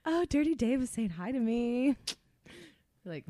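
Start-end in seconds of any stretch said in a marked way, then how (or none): 0.1-2.0 slightly higher mock-mom voice; a hint of a flattered mom; imitated mom. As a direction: lightly voice a pleased mother. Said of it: "She doesn't talk like that".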